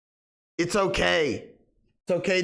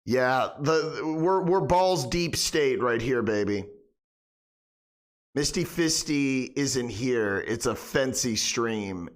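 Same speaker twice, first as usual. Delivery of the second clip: deep smooth persona; 6 semitones lower than usual. Acted. Deep lounging stream persona.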